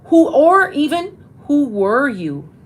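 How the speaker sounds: put-on high and slow, asking a child who they were; sing-song demo of asking a child; coaxing question. Shown as a demonstration. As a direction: gently draw it out of a kid. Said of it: "Do you see how that goes".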